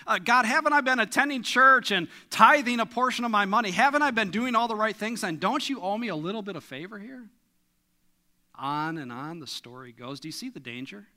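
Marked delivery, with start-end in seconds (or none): 0.1-7.3 louder, a bit higher, pressing his case; a churchgoer listing his dues to God, indignant; husband's indignant complaint. Retold or imitated. Husband demanding God repay his tithing, indignant. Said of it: "the husband struggling financially".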